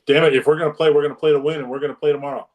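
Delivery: mildly heated, insistent retold scolding; mad coach. Coach to the captain reluctant to play tomorrow, mildly mad. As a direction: imitate a coach laying down the law, a touch angry. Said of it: "he was mad at me because".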